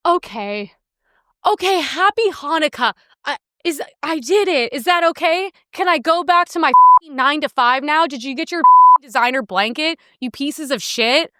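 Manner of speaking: old clerk voiced. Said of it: "she just was like".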